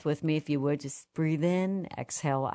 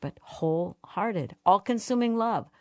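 swelling passion; 4 semitones higher than usual. Acted. Devotional reading building.

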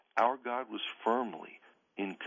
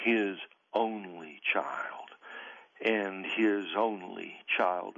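slow whisper; much slower than usual. Real, not acted. Gospel detail, solemn.

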